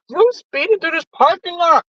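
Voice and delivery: talking while chewing; words around a bite of food; mouth full. Real, not acted. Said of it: "I don't normally talk with my mouth full".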